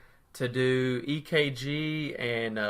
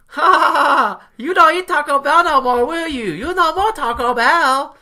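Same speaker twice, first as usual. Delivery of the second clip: put-on loud, high cackling gloat, Asian-accented; taunting mock Asian accent; 12 dB louder than usual. Staffer taunting departing patient over lunch, mock Asian accent. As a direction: jeer in a hammed-up Asian accent. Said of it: "she's standing over there going".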